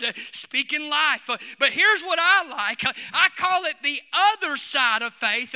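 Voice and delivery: urgent sermon cadence, punching key phrases; fervent preaching. Real, not acted. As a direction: preach it with building conviction. Preaching with rising force.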